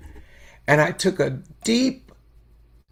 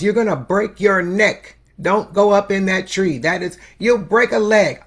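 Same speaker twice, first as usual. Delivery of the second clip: put-on a worried elder calling up to the child, louder; raised scolding warning to a child in a tree; 4 semitones higher, 5 dB louder than usual. Elders shout warning up the tree, raised voice.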